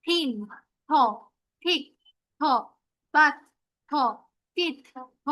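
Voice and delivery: "থিন, থিক, বাত, টিপ", each followed by a lone "থ"; teacher drilling "থ" with pauses; TH sound demo. Shown as a demonstration. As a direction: sound out each word, then isolate "থ". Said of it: "থ এর মতো sound আসে".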